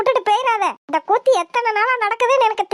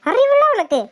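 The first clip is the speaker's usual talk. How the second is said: exasperated scold; 7 semitones higher than usual. Acted. Scolding friend for asking loudly.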